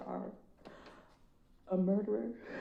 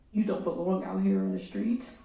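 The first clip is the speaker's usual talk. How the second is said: loud and firm at the defendant; grieving mother, louder accusation; angry; 3 semitones lower, 7 dB louder than usual. Real, not acted. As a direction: lay it down hard. Addressing the killer in court.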